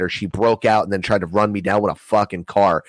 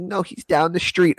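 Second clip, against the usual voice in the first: much higher, mock girly reply; mock girl voice; 10 semitones higher than usual. Girlfriend saying her ex lives nearby, high and mocking. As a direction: squeak it like the girlfriend.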